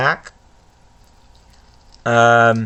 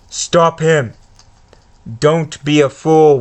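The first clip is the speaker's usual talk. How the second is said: Voldemort. Acted. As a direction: tempt and threaten the boy. Reads Voldemort's speech.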